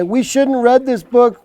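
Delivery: a hint of a child wailing. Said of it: "wailed the Anna and Adelaide".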